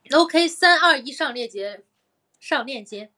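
pushy livestream seller countdown; hard sell ad. Pretend. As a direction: hype the countdown like a sales host. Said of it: "带货成功". (带货主播喊上链接)

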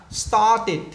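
started in two beats, "start-it". Shown as a demonstration. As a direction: add an it syllable to started. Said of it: "được phát âm là it". (đọc started thành "start-it")

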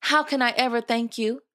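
high-pitched, delighted thanks; grateful delight. A narrator's reading. Cinderella thanks her fairy godmother.

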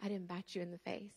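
put-on gently calm a hurt child; tender God. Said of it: "he's like".

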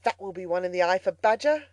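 gleeful touch of Toad; lightly voiced boastful Toad. A narrator's reading. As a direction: lightly play a smug Toad scoring a point. Toad's boastful speech.

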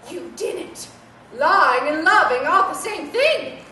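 lightly voiced scolding old lady; a hint of a stern dowager; frail withering duchess. Toy scolds, calls her dear.

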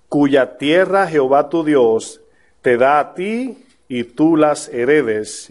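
slow, measured reading of the verse; scripture reading. Acted. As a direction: read the law calmly and deliberately. Reads scripture slowly.

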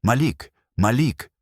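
вище й гучніше, налякано гукає ім'я; наче дружина в паніці кличе чоловіка; wife's panicked scream. Retold or imitated. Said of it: "моя дружина кричить". (дружина з жахом гукає чоловіка в палаті, крик)

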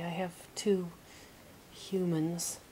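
hateful sneer; a touch of a troll's hateful sneer. Acted. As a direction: sneer the words with contempt. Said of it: "he sneered hatefully".

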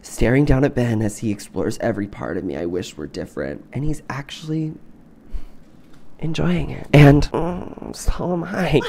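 measured audiobook-style reading; story narration. Acted. Reading a romance novel to friends, narrating. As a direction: read the romance passage evenly.

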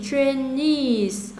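"trainees" with the stress on "-nees"; stress on last syllable. Shown as a demonstration. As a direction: lean on the ending of "trainees". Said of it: "trainees cũng nhấn ở đây luôn".

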